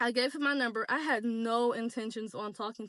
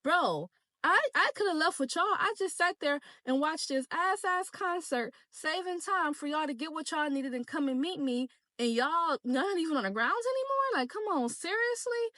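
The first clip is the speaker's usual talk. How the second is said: raised, exasperated telling-off of friends; annoyed rant; 4 semitones higher than usual. Retold or imitated. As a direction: let them have it for leaving you. Chewing out friends who left.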